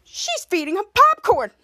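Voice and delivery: high, slowed, indignant cry; mock jealous wail; jealous outburst. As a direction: blurt out the jealous discovery. Jealous Kid Danger spotting Bianca.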